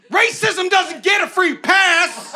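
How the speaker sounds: high, slow announcing shout; bus sign slogan. Retold or imitated. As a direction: blare it like a bus display slogan. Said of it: "one for me that goes".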